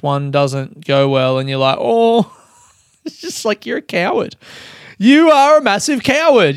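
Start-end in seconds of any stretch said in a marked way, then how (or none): 1.8-6.6 scornful. Acted. Scorning the comic who quit.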